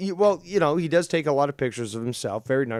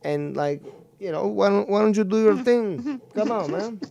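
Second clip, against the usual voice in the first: put-on Latino accent; 7 dB louder than usual. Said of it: "let me do my Latino accent".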